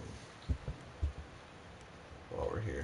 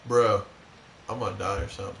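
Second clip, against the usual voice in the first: panicking gamer; 8 dB louder, faster than usual. Real, not acted. Jump scare in horror game.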